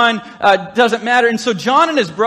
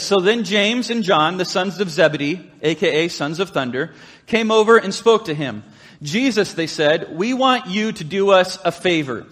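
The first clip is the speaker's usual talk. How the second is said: scripture reading; 2 semitones lower than usual. Acted. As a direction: read the verse out deliberately. Reads scripture aloud slowly.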